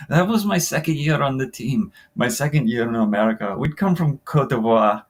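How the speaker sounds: shaky attempt at a French African accent; amateur French-accented character reading. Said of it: "do a French African accent".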